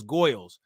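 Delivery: goyles said with an oi sound in place of er; New York pronunciation. Shown as a demonstration. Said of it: "her grandparents called girls goyles".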